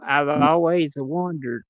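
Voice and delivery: slow, polite question to the teacher; polite student asking. Pretend. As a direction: ask slowly, like a schoolkid raising a hand. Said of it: "just like I'm raising my hand in class".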